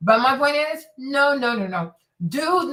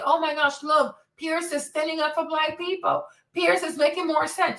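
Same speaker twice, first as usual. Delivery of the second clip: mock gushing; 5 semitones higher than usual. Mocking gushing fans.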